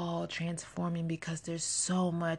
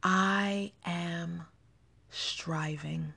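broken off after "I am", then "striving" trails off softer; halting fumbled take; 2 semitones lower, 3 dB quieter, much slower than usual. Shown as a demonstration. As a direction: stumble on "I am", then let "striving" fade. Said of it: "I have to say it again".

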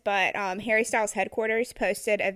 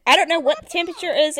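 louder, raised protest about the cold; emphatic protest; 8 semitones higher, 6 dB louder than usual. Real, not acted. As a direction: insists it's too cold, louder.

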